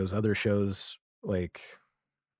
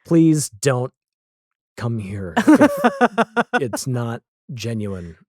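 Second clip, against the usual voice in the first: loud earnest plea straight to the camera; pleading to camera; 2 semitones higher, 7 dB louder, slower than usual. Pretend. To would-be visitors through the camera, a loud plea. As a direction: beg visitors to stay home, louder. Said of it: "and I'm like".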